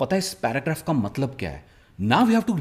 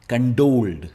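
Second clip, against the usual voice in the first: कंडोल्ड with the stress on the last part; stress at end; 3 semitones lower, slower than usual. Shown as a demonstration. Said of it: "stress इसका एंड में है". (कंडोल्ड में आखिरी हिस्से पर ज़ोर)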